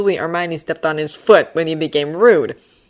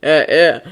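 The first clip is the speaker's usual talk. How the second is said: grumbling; 6 dB louder than usual. Acted. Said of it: "Ron grumbled".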